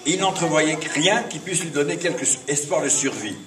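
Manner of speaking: measured storytelling with pauses between phrases; fable recitation. Acted. Poet reciting his fable to the congregation, measured recitation.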